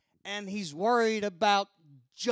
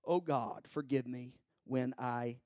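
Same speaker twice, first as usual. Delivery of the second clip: storytelling verse with hushed line endings; poem recitation; 2 semitones lower than usual. Real, not acted.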